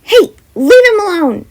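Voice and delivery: high loud shout to stop him; yelling. Acted. Jem yells at the menacing figure, loud high shout.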